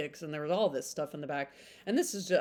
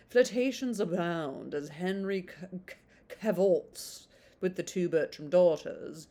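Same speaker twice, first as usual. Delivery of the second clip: put-on blurb read on in a light British accent. Reading the blurb to viewers, still in a British accent. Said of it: "I do do British accent".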